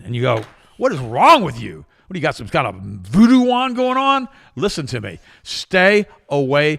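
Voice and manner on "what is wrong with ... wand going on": incredulous. Retold or imitated. Retorting to the doctor.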